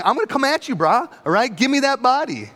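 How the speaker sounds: high, pushy, mock-tough threat; bulldog aggression. Mary threatening the gardener, with hammed-up bulldog aggression. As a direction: come at him like a bulldog on a pork chop. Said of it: "like a bulldog on a pork chop".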